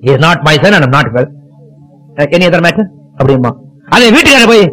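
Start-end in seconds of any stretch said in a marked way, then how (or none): 0.0-2.9 slow, curt brush-off; a hint of a haughty father waving it away; dismissive father. Father brushing off a neighbour asking about his jailed son, slow and dismissive.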